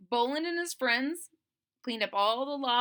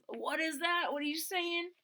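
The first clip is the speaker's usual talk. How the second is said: indignant bully; 7 semitones higher than usual. Acted. Tyrone overhears the Swampies.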